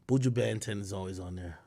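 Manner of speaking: A singer's name said the American way, flat vowels; an American-accented singer's name. Real, not acted. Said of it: "I gotta stop with my American accent".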